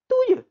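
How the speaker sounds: je squeaked very high and loud; stress on je. Shown as a demonstration. Teacher stressing je for the class. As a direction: snap tu je sharply upward.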